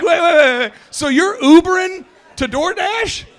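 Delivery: high, slow, laughing through wait wait wait; cracking up in disbelief. Real, not acted. Telling the office about the Uber-riding delivery guy, laughing.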